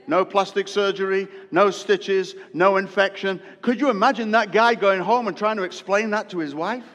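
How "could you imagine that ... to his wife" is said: laughing. Real, not acted. Preacher laughing at the story.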